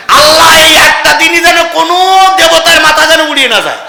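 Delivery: high, loud plea to Allah; shouted prayer. Real, not acted. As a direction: cry out the prayer, falling at the end. Preacher cries out a prayer. (গলা চড়িয়ে আল্লাহর কাছে দোয়া)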